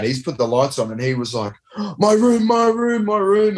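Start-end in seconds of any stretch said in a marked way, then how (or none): 2.0-3.6 high-pitched imitation of a panicked man; frantic mock protest, words tumbling in repeats; freaked out. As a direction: imitate a flustered stranger, pitched way up. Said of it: "And he's freaked out".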